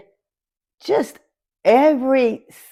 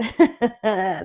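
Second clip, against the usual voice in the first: teary laugh. Real, not acted. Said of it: "ooh, give me a minute".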